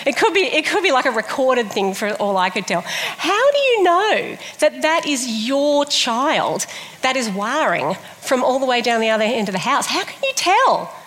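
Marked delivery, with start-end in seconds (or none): 2.8-10.9 incredulous mock question. Preacher teasing baby-proud parents, playful disbelief.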